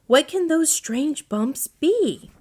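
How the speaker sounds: puzzled wondering. A narrator's reading. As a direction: wonder aloud, slow and high. Owl puzzled by bumps.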